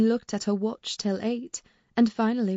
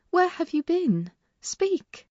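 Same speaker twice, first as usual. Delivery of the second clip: sharp demand; 8 semitones higher, slower than usual. A narrator's reading. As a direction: press her for an answer, now. Servant repeats demand, sharper.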